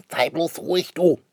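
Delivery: put-on high, sharp child's yell to hush her; shouting. A narrator's reading. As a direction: cut his sister off. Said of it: "schreit Schnipperle".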